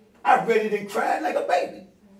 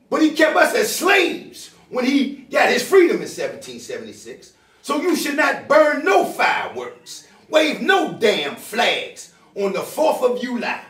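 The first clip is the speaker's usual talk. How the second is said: angry shouting; 5 semitones higher, 4 dB louder than usual. Real, not acted. Angry preaching at the audience.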